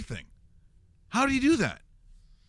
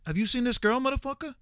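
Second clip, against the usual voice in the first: higher New York tough-guy voice; a Steven Seagal impression, higher and New York; young Steven Seagal; 9 semitones higher than usual. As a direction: do young Seagal, pitched up and street. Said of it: "He talked a little higher".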